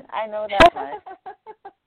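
loud, high, slow eager insistence; excited. Real, not acted. Eager, laughing wish for more.

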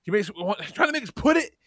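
a sulky son griping about class; whiny kid. Retold or imitated. Son griping to his dad about pencils. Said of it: "And he's like".

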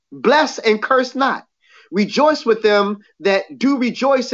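even, measured reading of the verses; scripture reading. Acted. Preacher reading Romans to his listeners, measured. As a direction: read it out steady to the church.

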